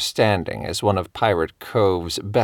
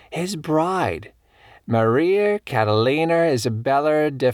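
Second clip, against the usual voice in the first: lightly voiced elderly storyteller; 3 semitones higher than usual. Elderly colleague shares her theory about the bride, lightly voiced. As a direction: lightly play a keen old New Englander.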